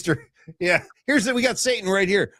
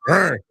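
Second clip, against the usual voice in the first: demonic grunt; 5 dB louder than usual. Retold or imitated. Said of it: "Good sound effect".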